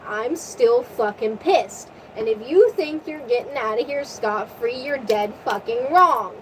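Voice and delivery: measured, mildly menacing imitation; mock angry threat. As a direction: lightly act out a pissed-off sea god, leaning on the swear words. Acted angry threat from Poseidon.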